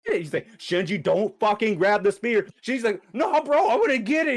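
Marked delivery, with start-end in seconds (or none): 0.6-2.5 "don't fucking" hit harder in a retold warning; insistent warning. Kawaru warning Shinji off the spear, insistent with "don't fucking" punched. 3.1-4.4 high, loud, stubborn mock protest; heated refusal. Shinji refusing to leave the spear, high heated mock protest.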